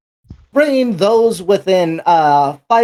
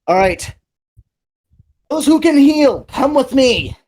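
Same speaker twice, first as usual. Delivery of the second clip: commanding; 10 semitones higher than usual. Acted. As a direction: take charge of the group. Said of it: "in a very commanding tone says".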